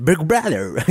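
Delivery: put-on teasing copy of accented English; mocking accent imitation. Host teasing the guest over saying Big Brother, mock accent. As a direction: parrot the English title in an exaggerated accent. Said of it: "Γιατί είπες με προφορά".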